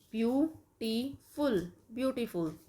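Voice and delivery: ब्यूटीफुल drawn out slowly, syllable by syllable. Shown as a demonstration. Teacher drawing out the word for syllable claps. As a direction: stretch ब्यूटीफुल so kids can clap. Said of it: "clap भी करना है for each syllable".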